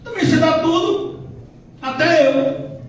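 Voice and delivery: mock dialogue of Satan and God. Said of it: "Satanás reclamou logo".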